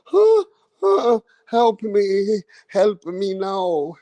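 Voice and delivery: gasping then slow whimpering plea; mock the fighter begging for help; mock hurt fighter. Ranter mimics Usyk on the floor, slow mock plea. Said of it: "take a shot like that and sit on the floor".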